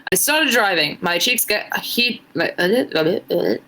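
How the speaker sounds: put-on a shaky try at an Irish accent, drifting British; reading fan fiction aloud in a so-so Irish lilt; attempted Irish accent. Streamer reading fan fiction to chat, in a struggling Irish accent. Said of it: "trying her best to do an Irish accent".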